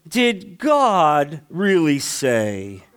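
a hint of the tempting serpent, dropping low; imitation of Satan. Preacher voicing Satan's question to the congregation, low and sly. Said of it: "That's my imitation of Satan".

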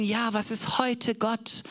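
slow, put-on voice of a modern skeptic; mock question. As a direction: ask it dismissively, drawn out. Imitating modern people. (gedehnte, verstellte Stimme eines Zweiflers)

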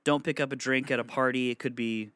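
put-on high, stern elderly warning; grandma's warnings. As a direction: warn like a worried grandma. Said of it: "The warnings she would give me".

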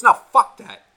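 loud, emphatic mock retort; retold defiant refusal. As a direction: act out his stubborn outburst. Friend refusing in retold argument.

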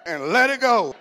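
loud, slow, high declaration; mock-solemn shouted decree, drawn out; commanding shout. Commands the bank during declaration.

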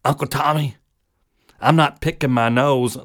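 a hint of a toddler's denial; toddler nephew. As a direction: innocent little kid protesting in the dark. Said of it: "and he goes".

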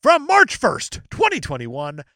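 emphatic reading, big high opening; dramatic review read. Acted. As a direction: announce the date, then read with punch. Reads an online review aloud.

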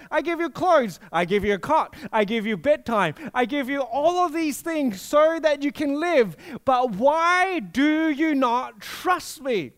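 exasperated pleading with son. Retold or imitated. Exasperated dad pleading with toddler.

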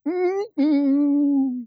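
high, loud stubborn hum of refusal; high, loud whining no-no hum. Retold or imitated. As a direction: refuse God like a stubborn child. Refusing God mid-song.

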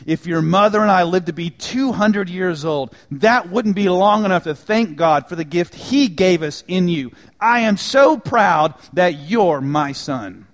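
loud heartfelt father's words; said loudly. Retold or imitated. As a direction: announce it proudly in front of the men. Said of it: "and said loudly".

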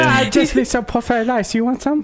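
his mother's Asian accent, hammed up; mock Asian accent. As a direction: offer fried rice in his mom's accent. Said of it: "So I do my Asian accent".

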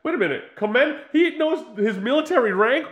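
high, loud laughing disbelief; incredulous. Retold or imitated. Host mocking Bond's hotel welcome, incredulous and loud. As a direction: rant it in mock outrage. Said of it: "And I'm like".

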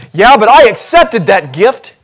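defensive muttering. Pretend. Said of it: "heard me say in the corner".

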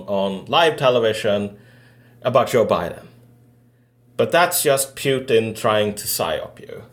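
mock-serious, lightly put-on TV host; a touch of deadpan mockery; mocking news segment. Retelling how a TV host mocked the chant, mock-serious. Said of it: "he sort of mocked it".

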